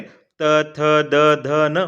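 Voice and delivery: त थ द ध न said for copying; letters modelled for students to repeat; repeat after me drill. Shown as a demonstration. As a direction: say each letter so they repeat it. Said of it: "मेरे साथ बोलें".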